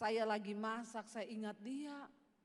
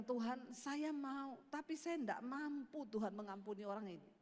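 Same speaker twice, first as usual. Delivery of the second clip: retold plea; 2 semitones lower, 3 dB quieter than usual. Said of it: "lalu saya bilang".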